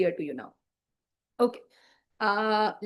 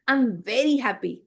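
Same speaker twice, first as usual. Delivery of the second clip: expressive happy. Shown as a demonstration. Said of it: "Look, my expressions".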